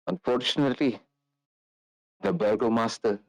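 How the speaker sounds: put-on an old lady asking strangers for help; old lady Fiona.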